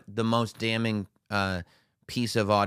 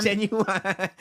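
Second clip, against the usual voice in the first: high, stretched mock "Genuine"; laughing mimic of "Genuine"; inflection on genuine; 9 semitones higher than usual. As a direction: copy the reader's lilt on "Genuine". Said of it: "she did have the inflection on genuine".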